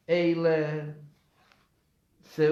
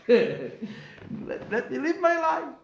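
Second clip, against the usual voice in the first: high, louder exasperated cry; amused mock protest, pitched way up; imitated plea; 9 semitones higher, 4 dB louder, much slower than usual. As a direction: cry out as the put-upon man. Repeats the plea after laughing.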